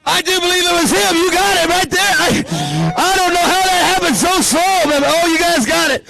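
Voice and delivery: high-pitched excited announcing; excited winner call. Real, not acted. Announcer telling the winners they got it, high and excited.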